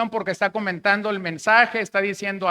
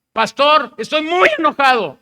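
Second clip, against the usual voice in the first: imitating angry caller; 7 semitones higher, 8 dB louder than usual. Angry church member phones pastor.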